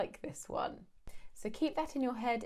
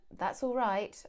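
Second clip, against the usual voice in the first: warm; slower than usual. Shown as a demonstration. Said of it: "My tone of voice is telling you everything".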